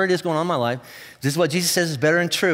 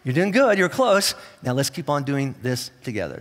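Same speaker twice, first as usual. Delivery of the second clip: gentle reassurance. Retold or imitated. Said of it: "he'll say".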